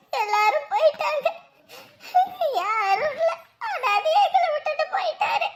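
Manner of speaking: tearful lament; crying. Acted. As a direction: widow lamenting through tears to her sister-in-law. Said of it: "அழாதீங்க அக்கா".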